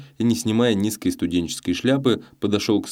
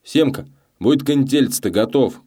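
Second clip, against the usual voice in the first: higher-pitched call to the banker; boy's shout; 6 semitones higher, 3 dB louder than usual. A narrator's reading. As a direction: call out to warn your pal. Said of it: "крикнул банкомёту мальчишка".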